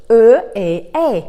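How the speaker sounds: three different French vowels: é, è, e; "E, E, E" as é, è and muted e; three French E sounds. Shown as a demonstration. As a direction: contrast the three French E's. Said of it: "escuchar estos tres sonidos".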